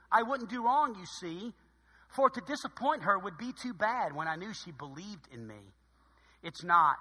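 measured, heartfelt poem recital; poem reading. Acted. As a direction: read it like a cherished verse. Reads a poem from the bulletin.

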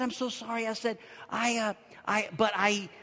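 soft, halting confession; hushed, awkward apology; sheepish hesitation. Retold or imitated. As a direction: stall and stammer quietly. Sheepish halting reply to caller.

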